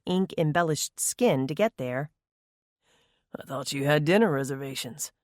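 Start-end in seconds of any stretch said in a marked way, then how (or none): 3.4-5.1 taunting. A narrator's reading. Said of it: "he taunted".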